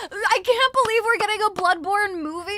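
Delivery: loud, high exasperated rant; indignant disbelief. Real, not acted. Outrage over Bloodborne movie.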